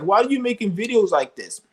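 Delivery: lightly mocking whiny hillbilly; mocking whiny hater. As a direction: parrot the critic with scorn. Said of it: "he's like".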